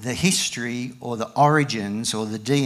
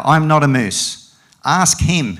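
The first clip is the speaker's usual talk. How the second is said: loud, raised protest from a story cow; crying out; 4 semitones higher, 8 dB louder than usual. A narrator's reading. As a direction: insist at full voice, higher. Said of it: "cried the cow".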